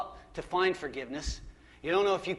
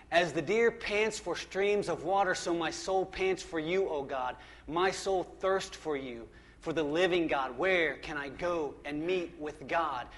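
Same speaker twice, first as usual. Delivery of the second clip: 1 psalm reading. Acted. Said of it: "Listen to what the psalmist says".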